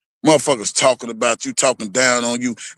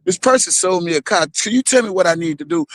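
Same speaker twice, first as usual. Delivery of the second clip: polite caller voice; 5 semitones higher than usual. Retold or imitated. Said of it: "I sure know how to say".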